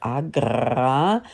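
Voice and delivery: "Agra" drawn way out on a rolled R, rising at the end; stressed R. Pretend. Presenter introducing the committee's statement, R exaggerated. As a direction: stretch the R in "Agra" mockingly, very slowly. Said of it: "die Betonung liegt auf dem R".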